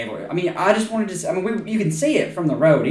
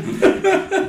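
mock angry gasp. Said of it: "I had my eyebrows real up high".

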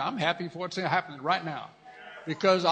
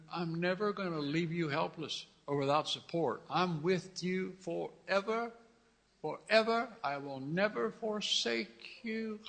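tender reassurance; 5 dB quieter than usual. Acted. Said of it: "voicing God tenderly".

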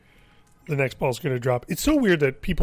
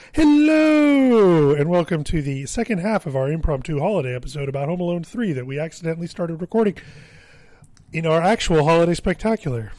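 big cheesy host welcome; podcast host intro; 3 semitones higher, 4 dB louder than usual. Acted. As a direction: announce it like a show host. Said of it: "I have to go like".

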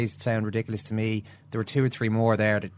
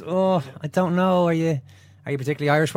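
mock doubtful panel; 6 semitones higher, 3 dB louder than usual. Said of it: "It could just be".

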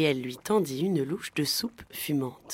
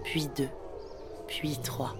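fading count; 9 dB quieter, slower than usual. A narrator's reading. Hours pass waiting.

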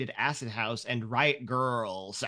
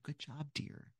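distant proud parent; 16 dB quieter than usual. Acted. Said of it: "being like".

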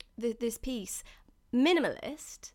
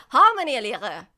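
loud go at a German accent; emphatic German-accented attempt; terrible German accent; 11 dB louder than usual. Shown as a demonstration. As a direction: have a big, clumsy stab at German. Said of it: "excuse my terrible German accent".

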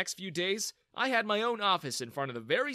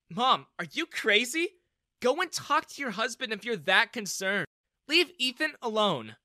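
annoyed; 7 semitones higher, 5 dB louder than usual. A narrator's reading. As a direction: scold her mother sharply. Daughter pulls mother away.

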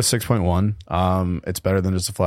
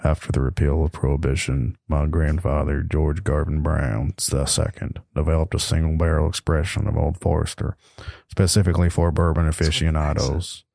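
lowered, smooth label read; sultry voice. Acted. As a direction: read the bottle like a seduction. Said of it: "read in the nice, sultry voice".

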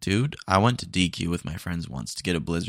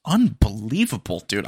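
exasperated; 5 dB louder than usual. Acted. Customer exasperated.

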